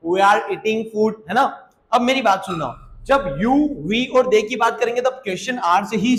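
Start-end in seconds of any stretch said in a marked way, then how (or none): 0.1-1.1 every word slow and separate; slow, careful teacher read; slow model sentence. Shown as a demonstration. Teacher modelling the English sentence slowly. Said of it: "हम खाना खा रहे हैं".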